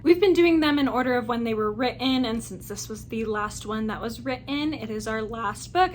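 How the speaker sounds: ordinary talk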